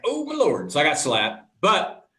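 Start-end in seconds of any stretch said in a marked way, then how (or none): 0.0-0.7 mock dismay, pitched well up; retold dismay. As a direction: groan it out, caught red-handed. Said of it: "I'm like".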